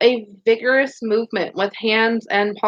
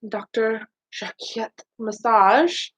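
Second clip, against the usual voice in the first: Jacquet said the French way, slow and drawn; Doctor Jacquet massage with a light French accent, rising at the end; a touch of French accent on Jacquet; 3 dB quieter, slower than usual. Shown as a demonstration. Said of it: "Say it with an accent every time".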